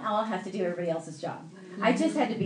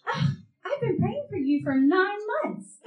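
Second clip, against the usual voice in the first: high, drawn-out mimicked gush; overcome girl; 11 semitones higher than usual. Girl tells man of her prayers, overcome gush. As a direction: gush slowly, pitched way up.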